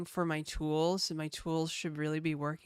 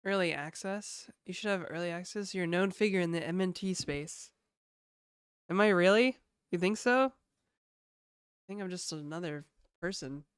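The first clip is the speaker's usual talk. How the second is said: blocked nose from a tissue; talking with one nostril plugged. Real, not acted. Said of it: "shove this tissue up my nose".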